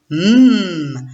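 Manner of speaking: M as a long closed-lip hum; son isolé. Shown as a demonstration. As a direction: hold the bare sound of M, no letter name. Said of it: "je rajoute le dernier son". (M prononcé seul, bouche fermée, tenu)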